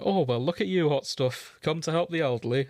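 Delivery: a hint of a kindly grandma teasing; nice old lady. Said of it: "just sort of nice old lady go".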